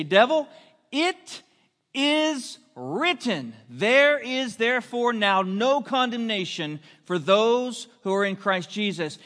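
a slow "it is written", then the verse rings out; fiery preaching. Acted. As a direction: declare the scripture with full conviction. Preaching at full force.

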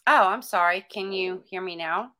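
choppy, pixelated phone line; glitchy robotic connection. Real, not acted. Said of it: "you sound robotic".

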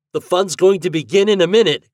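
put-on high, loud eager boy; excited cry. A narrator's reading. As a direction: cry it out to the group. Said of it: "cried Herbie".

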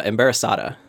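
embarazada in Spanish, stress on the "sa"; Spanish word. Shown as a demonstration. Quizzing Dave on a Spanish word, said as in Spanish. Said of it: "it's a Spanish word".

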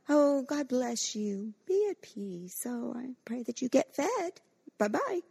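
breezy, insincere send-off; mock well-wishing. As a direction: bless them airily and move on. Mocking a do-nothing well-wisher.

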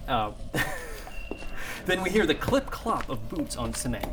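dramatic screenplay narration; story narration. Acted. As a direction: set the scene like a movie trailer.

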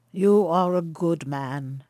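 lightly voiced grave stranger, slow; a touch of solemn kindness, unhurried; kindly old stranger. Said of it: "he said to Philemon".

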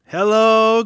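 campy drag queen. Pretend. Campy greeting to the wine.

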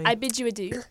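put-on playfully genteel British accent; mock British accent. Friend joins the accent game, mock British accent. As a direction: bid farewell in a pretend British accent. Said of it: "our British accent".

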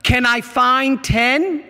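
slow, pleading God voice. Retold or imitated. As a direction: ask it slowly, like God searching. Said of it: "God says".

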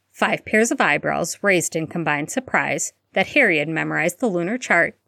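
usual speaking voice

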